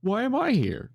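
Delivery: the yeti's confusion spiking into alarm; panicking yeti. Retold or imitated. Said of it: "that's the Yeti's immediate reaction".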